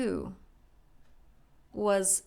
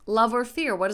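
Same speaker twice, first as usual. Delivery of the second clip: pressing question; 2 semitones higher, 8 dB louder than usual. Retold or imitated. Coach pressing client.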